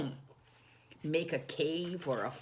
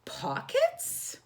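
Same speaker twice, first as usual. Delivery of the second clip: Corduroy's voice pitched way up, puzzled; squeaky wondering bear; high squeaky bear. Acted. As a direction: ask it like a small toy bear, much higher. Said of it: "said Corduroy to himself".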